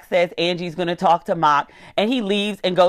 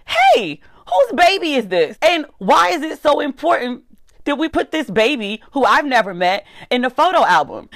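suspicious wife; 6 semitones higher than usual. Pretend. Suspicious wife questioning her husband about the baby photo, shrill high disbelief. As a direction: demand answers from a cheating husband. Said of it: "I would be like".

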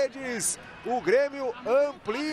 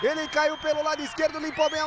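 slow stretched scorer call; goal commentary; 4 semitones higher than usual. Real, not acted. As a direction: drag out the scorer's name. Naming the opponent's scorer.

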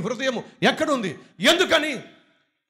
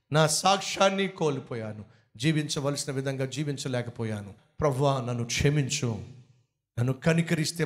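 repentant plea; 9 semitones lower than usual. Pretend. Model prayer of repentance.

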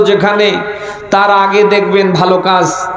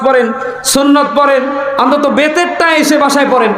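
higher, shouted exhortation; preaching shout; 4 semitones higher than usual. Real, not acted. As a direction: call it out to the crowd. Preacher urging prayers at home.

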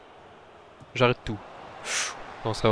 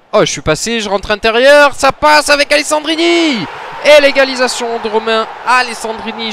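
much higher and louder, exultant; goal celebration; 9 semitones higher, 7 dB louder than usual. Real, not acted. Gamer celebrating his equaliser, ecstatic shouting. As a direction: scream the goal call.

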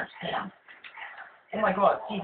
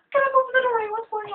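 surprised; 7 dB louder, faster than usual. Real, not acted. Frustrated in doorway.

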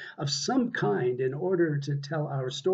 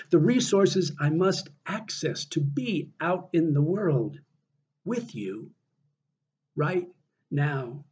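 measured poetry reading with deliberate pauses; earnest spoken poem, broken into short phrases; poem recitation. Acted. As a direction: read your own poem to an audience, weighing each phrase. Reads own poem aloud.

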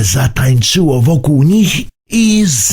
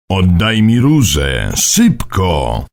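put-on urgent old man; 5 semitones lower than usual. A narrator's reading. Mimo urges the boy.

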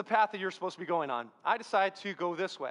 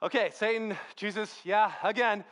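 mildly exasperated, mock-weary reply; a touch of put-upon impatience; frustrated. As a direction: answer as if worn down by the repetition. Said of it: "getting more and more frustrated".

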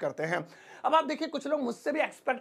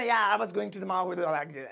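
very slow; 3 semitones lower, much slower than usual. Shown as a demonstration. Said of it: "अगर इसी को मैं कहूँ".

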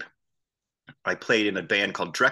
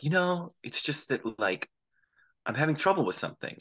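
imitating upset woman; 7 semitones higher, 4 dB quieter than usual. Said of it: "she's clearly upset".

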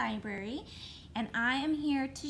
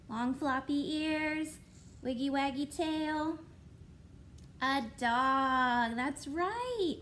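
ordinary talk

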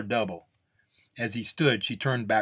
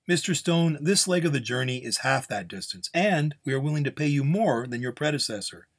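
higher-pitched, lightly acted negotiator; persuasive client; 5 semitones higher than usual. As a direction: press the offer on a reluctant gunslinger. Client argues for the job.

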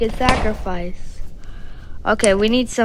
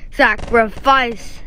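fuller slow sacrifice; slower than usual. Shown as a demonstration.

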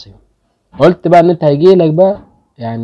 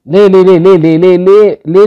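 louder, higher frustrated cries of ليه; real frustration, louder and higher; exasperated yelling; 5 semitones higher, 5 dB louder than usual. Real, not acted. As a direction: shout ليه over and over at bad luck. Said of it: "أنتوا بتعصبوني".

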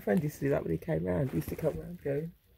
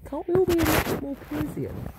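exclaiming plea; 10 semitones higher, 4 dB louder than usual. Real, not acted.

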